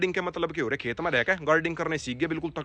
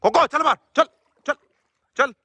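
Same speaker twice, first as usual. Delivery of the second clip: firm scolding चल बाहर, each चल barked; threatening command; 9 semitones higher, 4 dB louder than usual. Shown as a demonstration. Farmer scolding the dog Koko out of the mud, threatening. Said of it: "एक बार मैंने धमकाई".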